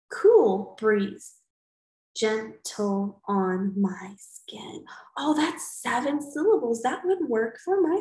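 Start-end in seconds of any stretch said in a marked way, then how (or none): 0.1-4.8 a loud "Cool breeze" then a slow whisper; slow, fading try-out. Shown as a demonstration. Teacher tries the line aloud for her class, fading to a whisper. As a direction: start strong, let it fade to a breath. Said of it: "So maybe I could say".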